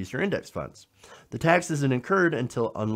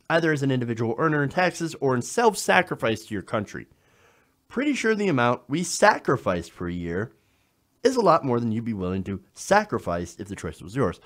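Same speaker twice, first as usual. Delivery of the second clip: "sacrifice" hit harder than the words around it; stressed key word. Retold or imitated. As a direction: punch "sacrifice" each time it comes. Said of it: "I keep stressing that word".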